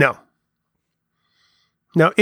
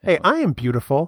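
dramatic reading; 4 dB quieter than usual. Pretend. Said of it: "that's a dramatic reading of a song".

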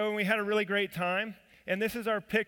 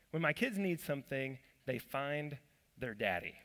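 soft emphasis; 4 semitones lower, 6 dB quieter than usual. Acted. Sermon point repeated softly.

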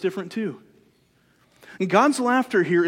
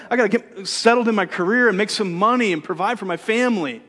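a hint of a busy student brushing God off, a bit louder; mock excuse-maker; 2 semitones higher, 4 dB louder than usual. Believer imitating a student's excuses to God, lightly mocking. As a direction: whine out excuses like a distracted college kid. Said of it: "we like the idea of".

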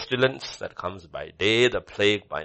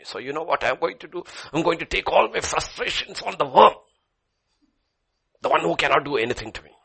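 put-on sulking child; 4 semitones higher, 5 dB louder than usual. Acted worm nursery rhyme.

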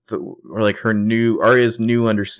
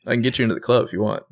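schmoozy buddy; 6 semitones higher, 4 dB louder, faster than usual. Retold or imitated. Imagined Peter schmoozing Holbrook, joking.

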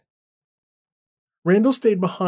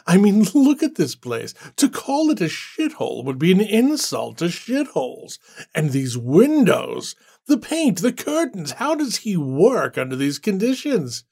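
mocking laugh; 4 semitones higher than usual. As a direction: laugh at the squalor like it's a bad joke. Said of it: "Randall laughed".

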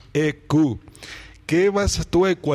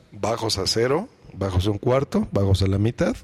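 bass eq demo; 5 semitones lower than usual. Shown as a demonstration. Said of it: "¿Ya checaron?".

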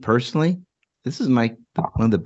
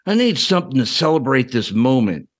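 put-on Southern old man; 2 semitones higher than usual. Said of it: "your Southern Ed Draw accent was perfect".

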